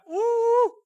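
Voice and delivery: very high, loud mock crowd cheer "woo"; crowd whoop. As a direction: whoop like a whole arena cheering. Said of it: "And the crowd".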